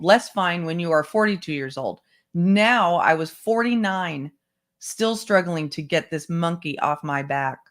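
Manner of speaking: measured first-person narration; memoir read-aloud. Acted.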